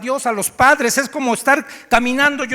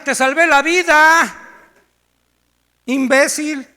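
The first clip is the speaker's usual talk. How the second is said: loud, higher, exasperated; furious retort; 4 semitones higher, 7 dB louder than usual. Pretend. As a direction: put the ungrateful fool in his place. Lifeguard snaps back.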